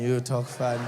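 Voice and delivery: low, unimpressed comeback; low retort. Retold or imitated. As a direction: throw it back in a low voice. His low retort to the girl.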